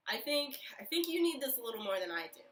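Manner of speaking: laughing through tears, voice cracking; half laugh, half cry as you give it away; teary, emotional laugh; choked up. Real, not acted. Choked up giving sandwich away.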